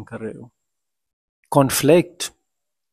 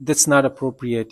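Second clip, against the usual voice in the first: slow, spelled-out teaching phrase; slow example phrase; much slower than usual. Shown as a demonstration. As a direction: say it slowly so students catch it. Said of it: "example phrase".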